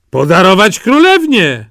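put-on high, eager country-boy voice; a naive lad dead set on a bride; eager simpleton Jaś. Jaś answers the brothers.

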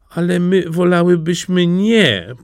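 high, reluctant plea; ladies' high-voiced entreaty; pleading. A narrator's reading. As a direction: beg politely to be let off. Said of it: "poprosiły damy".

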